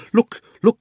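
high, loud excited cry. A narrator's reading. Diggory spots the ring on the guinea pig, crying out excitedly. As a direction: call out at the sudden sight. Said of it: "cried Diggory".

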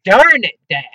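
a fake curse, held back for mom; mock exclamation. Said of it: "I said".

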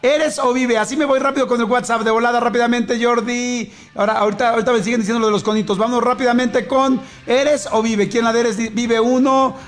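excited rush. Real, not acted. Radio host hurrying the WhatsApp vote between songs.

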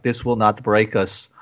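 measured defiance with a faint Russian lilt; accidental Russian accent. Acted. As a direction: drop low into a botched Russian accent. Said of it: "why do I sound Russian?".

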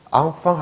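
앙팡 as "ang-fang"; wrong open vowels. Shown as a demonstration. Teacher warning it won't be understood, 앙팡 mispronounced "ang-fang". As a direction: say 앙팡 with plain "a" in both syllables. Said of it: "프랑스 사람들 못 알아들을 거예요".

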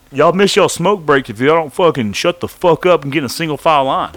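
loud guard yelling at the line; officer yelling at inmates to line up, loud; officer barking orders. Retold or imitated. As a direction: bark it like a fed-up prison officer. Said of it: "Ho ass Bernard, the officer".

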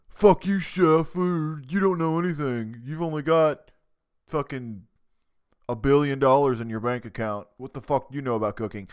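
hammed-up insolent cook shouting back at the chef; mock rude contestant. Eliminated contestant mocking the chef on his way out, mock defiant yell. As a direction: jeer at the boss like a sore loser. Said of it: "to finish that impersonation".

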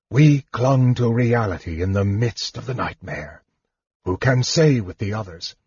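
lightly voiced weary sorcerer; Raistlin, spent mage. Mage telling half-elf why they lived, a touch weary.

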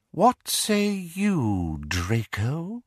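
high, cold, mocking villain voice; cold dark lord. Dark lord mocking the Death Eaters, cold and sneering. Voldemort taunts Draco.

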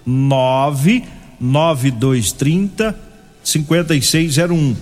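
very slow, each digit spelled out; over enunciating. Shown as a demonstration. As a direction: dictate the number slowly for writing down. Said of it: "Vou falar bem devagar pra você pegar a caneta".

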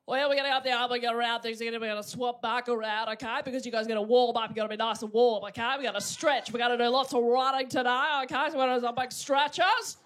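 lightly done bossy coach; gym coach. Pretend. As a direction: bark drills like a sports teacher. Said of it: "my impression of a, of a P E teacher".

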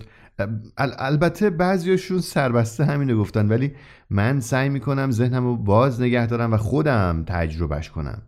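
hesitant, a little embarrassed, trying not to offend; a touch of shy caution, stumbling at the start; cautious and sheepish. Acted. Young man to the shopkeeper, cautious and sheepish. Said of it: "محتاطانه و با شرم گفت".

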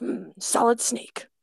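slow, lightly voiced Snake, ends cut off; a hint of Snake, words clipped short; Solid Snake voice. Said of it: "the ends are, like, a little more cut off".

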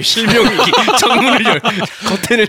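words breaking into laughter; laughing. Real, not acted. Joking about blinding sun.

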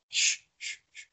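soft unvoiced shh; shushing. Real, not acted. Guest hushes the laughing friends softly. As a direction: hush them.

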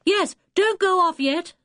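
high, urgent-sounding call. A narrator's reading. Julian calls to Dick to wait, calling out. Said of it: "called Julian".

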